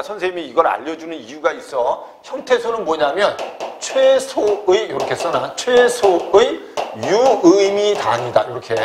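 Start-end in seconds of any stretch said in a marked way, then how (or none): 3.8-4.9 very slow, drawn-out "최소의"; slow dictation. Shown as a demonstration. Teacher dictating a definition to students, spelled out slowly. 5.6-8.5 very slow and a bit loud, syllable by syllable; slow dictation. Shown as a demonstration. Teacher dictating the morpheme definition, loud and slow.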